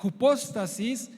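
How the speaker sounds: "hypostasis" stressed firmly on POS; "hypostasis" with its second syllable accented. Shown as a demonstration. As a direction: say hy-PÓS-ta-sis, leaning on the O. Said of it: "tiene acento en la O".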